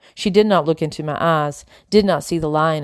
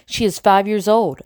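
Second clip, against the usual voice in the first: higher, emphatic, each word driven home; furious accusation; 4 semitones higher than usual. A narrator's reading. Isabel confronting Madam over her little sister, furious. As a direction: confront with pitch raised.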